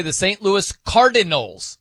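"Cardinals" with every syllable spelled out, slowly; careful, crisp "Saint Louis Cardinals"; over-enunciated. Retold or imitated. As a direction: enunciate the whole team name. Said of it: "totally enunciates the whole thing".

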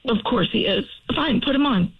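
grudging, fed-up agreement; unhappy. Real, not acted. Girlfriend agreeing to hear her boyfriend's apology, unhappy. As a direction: give in reluctantly, clearly not happy. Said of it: "She doesn't sound very happy".

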